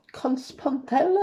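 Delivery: slow, unsure stab at a German accent; amateur German accent, drawn out with a questioning rise; attempted German accent. Shown as a demonstration. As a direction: stretch it out in a tentative German accent. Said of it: "j'ai pas l'accent allemand".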